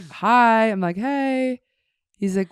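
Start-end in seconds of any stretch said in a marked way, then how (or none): 0.1-0.7 startled greeting. Retold or imitated. Startled chef greets intruder, retold. 1.0-1.6 awkward greeting. Retold or imitated. Sheepish intruder greets chef, retold.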